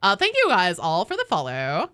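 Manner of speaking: put-on bubbly Valley Girl, rising lines; like, totally Valley Girl thank-yous. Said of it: "I'll do the rest in the Valley Girl voice".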